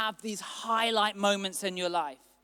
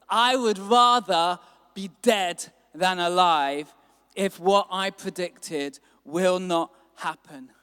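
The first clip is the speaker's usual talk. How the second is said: bitter complaint; 2 semitones lower, 5 dB louder than usual. Acted. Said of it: "he became very angry".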